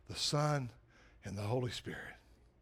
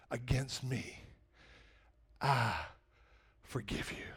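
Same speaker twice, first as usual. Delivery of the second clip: tender. Acted. God's voice, forgiving.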